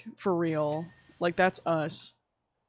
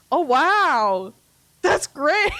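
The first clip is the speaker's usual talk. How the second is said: loud, much higher, over-the-top fake wow; mock enthusiasm; 7 semitones higher, 7 dB louder, much slower than usual. Faking interest so she won't argue with husband. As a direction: gush like you're impressed but aren't.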